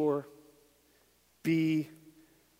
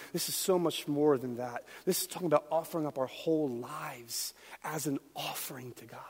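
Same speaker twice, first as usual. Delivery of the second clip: whisper; 6 dB quieter than usual. Acted. Intimate climax of sermon.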